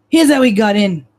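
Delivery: put-on gruff cop with a Brooklyn accent; lightly voiced Brooklyn detective. Detective Marino showing the examiner the way in, Brooklyn accent. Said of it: "I'm losing my Brooklyn accent".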